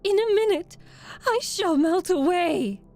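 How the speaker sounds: high, loud panicked cry; screaming witch. A narrator's reading. Witch screaming to the girl that she is melting. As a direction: shriek your own doom. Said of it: "she screamed".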